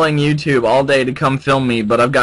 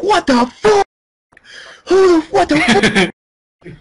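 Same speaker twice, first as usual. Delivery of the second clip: squeaky, much higher and louder what the fuck; shocked high-pitched disbelief, drawn out; stunned disbelief; 4 dB louder, much slower than usual. Retold or imitated. Reacting to the patient's voice, stunned high-pitched disbelief. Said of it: "I was like".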